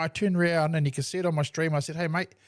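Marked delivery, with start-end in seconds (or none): 2.0-2.3 nice and calm. Retold or imitated. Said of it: "And I said it nicely and calmly".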